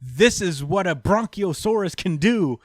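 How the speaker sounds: gloating villain, lightly voiced; mad scientist. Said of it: "he says".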